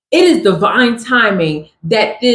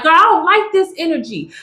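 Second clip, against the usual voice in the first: mock annoyed; 5 semitones higher, faster than usual. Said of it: "I was mad".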